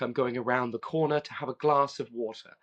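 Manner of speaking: "water" with a crisp T, lightly British; light English voicing, sound the T in "water" clearly; English accent. Shown as a demonstration. The English kid saying it his own way, a hint of British accent. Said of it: "Whereas he would be like".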